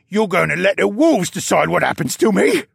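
high, loud, incredulous panic; frantic captive at high pitch; alarmed shriek. A narrator's reading. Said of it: "Luca shrieked".

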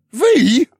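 sharp high indignant hiss; hissed rebuke. Acted. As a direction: hiss it at your brother. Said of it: "Beryl hissed".

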